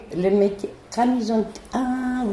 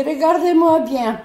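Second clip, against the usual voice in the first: higher and louder, a retold defiant retort; higher, louder defiant reply to the policeman; 7 semitones higher, 6 dB louder than usual. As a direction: tell him flatly to look at you. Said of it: "je dis".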